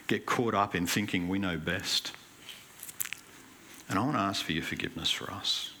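earnest spoken prayer to God; closing prayer. Acted. Pastor prays aloud for the congregation, earnest prayer. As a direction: pray sincerely for the church.

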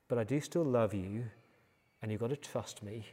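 softening, tender fatherly assurance; gentle reassurance. Retold or imitated. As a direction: ease down quietly into reassurance. God reassuring, as the father did.

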